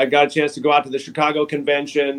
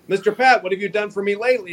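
imitating Tom's New York accent, a little higher and quicker; 3 semitones higher than usual. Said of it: "So he would say".

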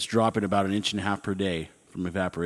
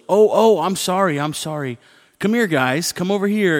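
high, loud mock apology calling the dogs; fake-sorry call; 8 semitones higher, 6 dB louder than usual. Owner calls dogs out of the pool, insincerely loud and high. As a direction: call them back like you don't mean it. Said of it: "a tone of voice that made 'em realize I wasn't serious".

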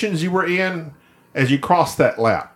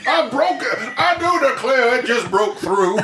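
hammed-up Georgian voice breaking into laughter; Georgian accent; 9 semitones higher than usual. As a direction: declare it in mock Georgian dismay, cracking up. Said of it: "every sentence we start with has to start".

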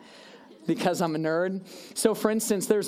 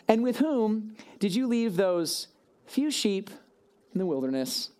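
sneering big brother; 3 semitones higher than usual. Acted. Eliab sneering at David.

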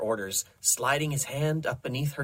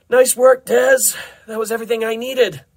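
high, loud, upbeat praise; pleased congratulation; 10 semitones higher, 10 dB louder than usual. Acted. Doctor Rex praising Desmond after the session, pleased. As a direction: congratulate with gusto.

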